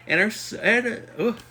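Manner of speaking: words stretched by a yawn; talking through a yawn. Real, not acted. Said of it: "I don't know where that yawn came from".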